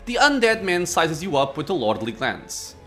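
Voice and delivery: measured reading of the scene; story narration. A narrator's reading.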